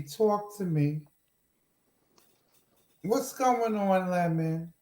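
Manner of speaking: soft, cajoling sweet-talk; coaxing. Real, not acted. Host to Lemon, mad at her, coaxing. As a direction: gently coax a sulking sweetheart to speak.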